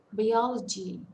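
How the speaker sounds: Biology with a loud OL; stress on second syllable. Shown as a demonstration. Teacher repeating the example, second syllable stressed. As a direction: punch the OL in Biology. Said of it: "second syllable".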